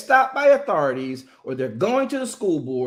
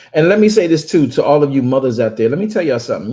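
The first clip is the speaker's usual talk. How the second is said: loud, lower, fast call to mothers; loud address; 4 semitones lower, 9 dB louder, faster than usual. Real, not acted. Host calling out to mothers, loud and forceful. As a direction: command the room's attention.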